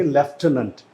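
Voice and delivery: British लेफ्टिनेंट said lef-TEN-ant with an f; lieutenant the British way, lef-TEN-ant; British pronunciation. Shown as a demonstration. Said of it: "जो British होंगे वो बोलेंगे".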